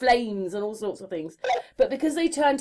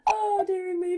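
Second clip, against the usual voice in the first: amused sigh; 7 semitones higher than usual. Real, not acted. Recovering after laughing at own remark.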